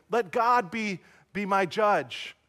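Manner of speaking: mild re-enacted call to an opponent. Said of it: "David calls for Saul and says".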